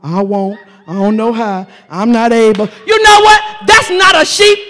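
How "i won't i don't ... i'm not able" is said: low, soft feeble excuses; mock whiny excuses. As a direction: whimper the excuses. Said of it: "all we can say is".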